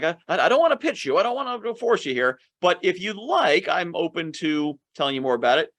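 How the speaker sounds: gentle, soft pitch. Shown as a demonstration. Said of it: "kind of be very gentle, be like".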